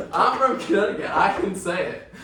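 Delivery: loud, high, half-laughing protest; retold territorial outburst; indignant insistence. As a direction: stake your claim in mock outrage. Retelling defence of home state.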